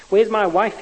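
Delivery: choked cry. A narrator's reading. Man lost in darkness chokes out a call for his wife. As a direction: voice catching as he calls for his wife. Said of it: "he choked".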